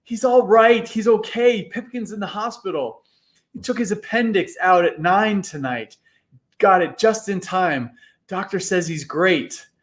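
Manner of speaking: high, excited relief, slowing at first; shrieking with joy. Acted. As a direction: shriek the good news. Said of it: "He ran along the sidewalk shrieking".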